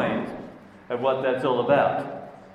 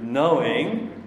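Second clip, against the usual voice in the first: "knowing" set apart with firm weight; stress on knowing. Retold or imitated. Preacher quoting Saint Paul to the congregation, stressing "knowing". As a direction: lean on "knowing", drawing the word out. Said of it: "The emphasis on knowing".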